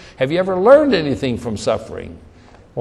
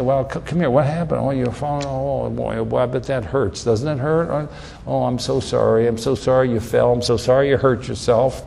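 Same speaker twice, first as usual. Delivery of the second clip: comforting parent; 4 semitones lower than usual. Retold or imitated. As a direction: soothe him gently, like a parent. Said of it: "What you do is you wanna say".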